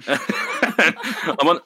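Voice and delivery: usual speaking voice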